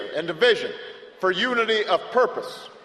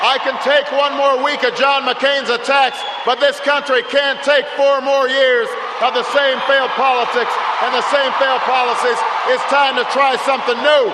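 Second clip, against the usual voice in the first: rousing shout; 3 semitones higher, 6 dB louder than usual. Real, not acted. Rally crescendo against opponent.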